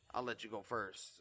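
stuffy nose from a cold; sniffling. Real, not acted. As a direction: talk while sniffling. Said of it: "Excuse my sniffling".

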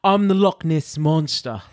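put-on slow Scottish accent; drawn-out Scottish accent. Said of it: "that's my Scottish accent there".

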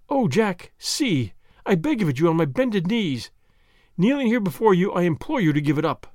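desperate, kneeling plea; tearful imploring. Acted. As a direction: implore him to give it up.

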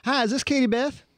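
a hint of a prank-call Southern voice; fake regional delivery guy. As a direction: play a local delivery driver calling a customer. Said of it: "I was trying to do a regional voice".

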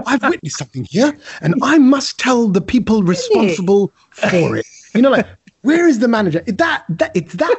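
mock an officious old man demanding the manager; teasing, self-important complainer voice; Uncle Kedge. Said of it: "that Uncle Kedge kicked in".

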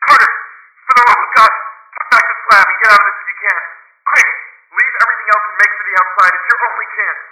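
loud, high, panicked shouting; wild consternation. A narrator's reading. Trapped man warning his friend to escape, wild panic. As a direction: shout frantic orders to flee, rapidly. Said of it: "in a pitch of wilder consternation".

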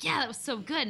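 mock self-satisfaction. Imagined pleased self-review of accent.

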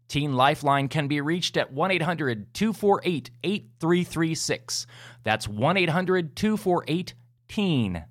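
measured public-service announcement with lilting pitch; careful announcer read, numbers spaced out; scripted podcast outro read. Acted. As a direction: read out the helpline details clearly and deliberately. Recorded outro with helpline resources.

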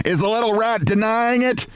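high-pitched outraged scream, controlled volume; screamed accusation. A narrator's reading. Missus Barrows bursts in on Martin, screaming. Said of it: "she screamed".

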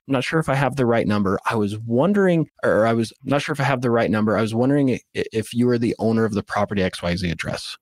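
mildly hesitant, halting phone opener. Shown as a demonstration. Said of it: "You're starting hesitant".

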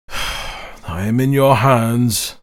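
slow resigned sigh of words. Acted. The brigand resigning himself to Paolo, slow and sighing. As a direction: give in with a slow weary sigh. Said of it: "sighed the brigand".

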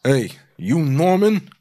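Steve. Acted. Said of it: "impersonates both Steve and Norman".

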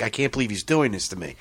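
mock shocked. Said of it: "she's all shocked".

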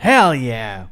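gruff low cheer; low wrestler bark. Pretend. Mock wrestler promo again.

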